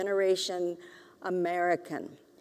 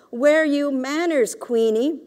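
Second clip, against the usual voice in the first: higher, louder scold to a dog; scolding auntie; 5 semitones higher, 6 dB louder than usual. A narrator's reading. Auntie scolding her dog, higher and louder. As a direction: chide the yapping dog.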